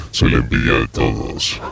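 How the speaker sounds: deep sultry self-admiring voice; low velvety seductor boasting; voz sensual. Pretend. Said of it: "qué voz sensual tengo". (voz sensual muy grave)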